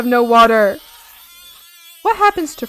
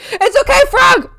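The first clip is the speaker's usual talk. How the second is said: high cooing reassurance; 14 semitones higher, 7 dB louder than usual. Acted. Soothing the voiced frog.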